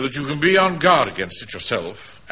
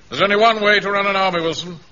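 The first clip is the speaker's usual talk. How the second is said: emphatic lecture; 5 semitones higher, 5 dB louder than usual. Acted. Officer lecturing on discipline.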